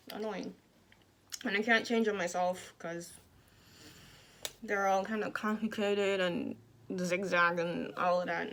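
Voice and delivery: speaking with jaw wired shut; words pushed through clenched teeth; talking through teeth. Real, not acted. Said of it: "I talk through my teeth".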